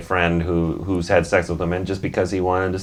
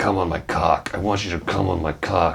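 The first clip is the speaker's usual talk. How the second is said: guttural, throaty voice, words pushed up from the throat; 3 dB quieter than usual. Retelling what a guy said to him in a car, guttural voice. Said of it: "he had this guttural voice".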